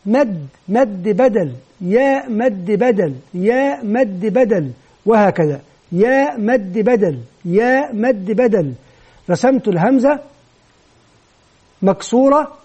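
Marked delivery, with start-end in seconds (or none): 0.1-4.7 slow, evenly repeated classroom chant-like phrase; deliberate, measured repetition; slow drill. Shown as a demonstration. Teacher modelling a repetition drill. 5.9-8.7 slow, evenly repeated classroom chant-like phrase; deliberate, measured repetition; slow drill. Shown as a demonstration. Teacher modelling a repetition drill.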